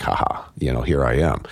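low, mild mock gloat; a hint of a taunting killer. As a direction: lightly tease the chasers. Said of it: "a form of taunt".

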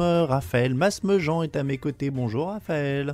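sugary, syrupy host greeting; honeyed voice. Pretend. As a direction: lay the sweetness on thick. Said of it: "j'ai pris cette voix mielleuse".

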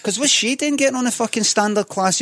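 high-pitched, affronted protest; mock snobbish indignation. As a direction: act too grand for present company. Mock snobbish retort to the woman.

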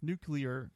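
nuclear slowly, as NOO-klee-er; careful corrected nuclear. Real, not acted. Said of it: "sorry, nuclear".

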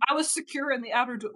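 accidental slip into cowboy talk; captain's line sliding into a cowboy accent. Acted. Captain explains where she was, light cowboy accent. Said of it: "Why is she a cowboy?".

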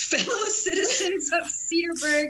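slow, ceremonial mock address; playful town-crier introduction; mock-formal announcement. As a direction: announce it grandly, drawn out. Mock-grand introduction of musical guest.

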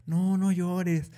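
a light imitation of someone hushing a sad friend; consoling friend. Friend hushing someone who cries, mild mock soothing.

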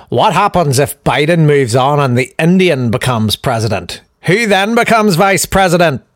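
put-on Irish accent for a quote; a hint of an Irish peer. Reading out a peer's tweet, Irish accent. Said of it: "there's me doing an Irish accent".

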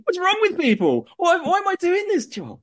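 high, laughing exasperation; laughing despair. Real, not acted. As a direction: wail it out while laughing helplessly.

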